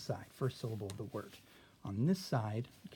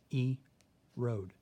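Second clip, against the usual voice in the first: E, road with a pause before road; syllable split; 3 dB louder than usual. Shown as a demonstration. Teacher splitting a word into syllables for the class. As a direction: break "E, road" into two beats, road falling. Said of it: "It's how we pronounce it".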